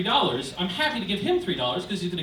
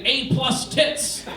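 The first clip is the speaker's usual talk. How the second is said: deadpan commenter; 4 semitones higher, much slower than usual. Retold or imitated.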